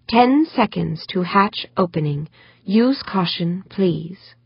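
slow, even machine announcement; an automated warning, measured; computer voice. Acted. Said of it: "The computer voice announced".

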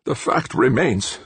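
high, slow controlled anger; deadly anger. A narrator's reading. Professor about to assign blame, deadly angry. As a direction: hold back deadly anger. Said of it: "his voice quivering slightly with deadly anger".

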